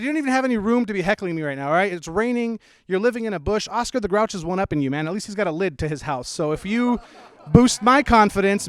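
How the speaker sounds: fast, loud roast of a heckler; ranting comeback. Retold or imitated. Comic roasting the homeless heckler, loud rant. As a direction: fire back hard and fast. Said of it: "I said".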